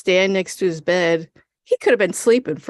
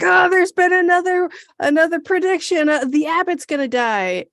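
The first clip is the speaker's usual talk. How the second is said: higher, worried monk voice; mock fretful monk; 9 semitones higher than usual. Monk warning about the Abbott, lightly higher. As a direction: fret like a nervous monk. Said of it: "and he's like".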